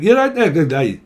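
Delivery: hammed-up Scottish accent. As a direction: play a puzzled Scot. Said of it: "You could be from Scotland".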